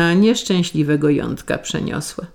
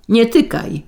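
higher-pitched warning yell; narrated yell, pitched up but contained; sharper yell; 6 semitones higher than usual. A narrator's reading. Husband stopping his wife a second time, yelling. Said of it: "wrzasnął Jątek".

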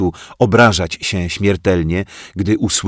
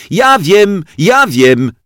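put-on high, loud child calling out; eager shout; 12 semitones higher, 7 dB louder, slower than usual. A narrator's reading. Zosia bursts into the teacher's talk, shouting eagerly. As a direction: blurt it out like an eager little girl. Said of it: "krzyknęła milcząca dotąd Zosia".

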